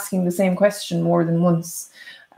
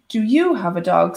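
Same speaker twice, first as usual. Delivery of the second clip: "you" stretched and raised above the rest; stress on YOU. Shown as a demonstration. Teacher turning the question to Siobhan, stress on "you". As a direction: lean on "you". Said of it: "putting emphasis on the".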